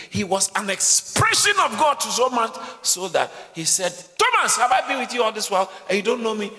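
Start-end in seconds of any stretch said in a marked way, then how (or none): 4.2-6.5 voicing Jesus. Preacher voicing Jesus to Thomas.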